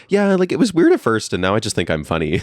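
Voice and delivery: high, loud, full of herself; a cocky retold reply; mock self-important answer. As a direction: play up your own conceit. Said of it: "and I went".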